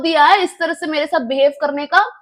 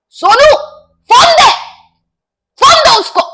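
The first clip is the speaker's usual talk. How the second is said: loud high-pitched yell from inside; चिल्लाना; 11 semitones higher, 9 dB louder than usual. Retold or imitated. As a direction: imitate her stepfather yelling orders. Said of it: "वो अंदर से वो ऐसे चिल्ला रहा है". (ज़ोर से चिल्लाते हुए नकल)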